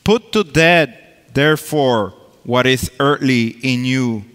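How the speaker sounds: emphatic, proclaiming Bible reading; scripture reading. Acted. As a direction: read the verses out like preaching. Reads scripture from Colossians.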